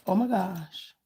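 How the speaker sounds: usual speaking voice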